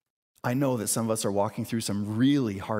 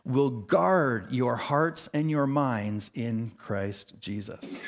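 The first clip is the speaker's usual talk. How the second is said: slow, solemn Bible reading; measured reverent scripture read. Acted. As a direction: read the verses with weight. Reads scripture passage aloud.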